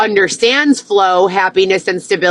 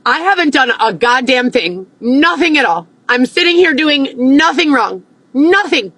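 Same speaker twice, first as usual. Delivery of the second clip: heated, rising higher as she insists; indignant protest; 4 semitones higher than usual. Retold or imitated. Woman protesting to the cops, heated. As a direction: protest her innocence, getting sharper. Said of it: "I'm like".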